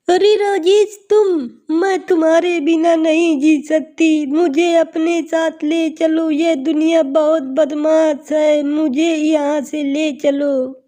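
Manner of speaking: a touch of tearful begging; pleading young woman. Acted. Girl begging lover's ghost to take her, mildly plaintive.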